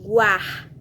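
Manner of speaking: "Guar" alone, G and U both sounded clearly; teacher isolating "Guar" for the class; isolated syllable. Shown as a demonstration. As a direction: pull out "Guar" as a separate chunk. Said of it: "Veja que eu falo o som do G e o som do U".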